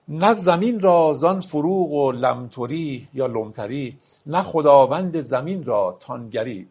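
slow, measured reading of a Persian verse; poetry recitation. Acted. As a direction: lay out each word of the couplet slowly. (دکلمهٔ آرام شعر)

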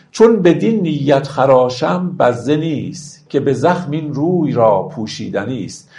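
slow, measured verse reading; stately classical verse delivery; poetry recitation. Acted. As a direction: recite the couplets with drawn-out, metered phrasing. Recites verse between explanations.

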